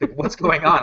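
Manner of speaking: high, loud imitation of a stunned viewer; mock bewilderment. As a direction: act baffled by a talking cat. Viewer reacts to talking cat.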